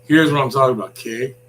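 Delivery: loud, mock Canadian accent ending on okay; a Canadian-sounding okay. Caller showing how he sounds Canadian, loud and mock Canadian. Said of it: "I just sound Canadian when I go".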